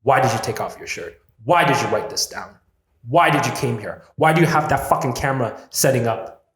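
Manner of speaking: loud determined self-talk, building; defiant inner voice. Retold or imitated. His brave side pushing past fear, defiant and loud. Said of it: "there's just a part of me that is like".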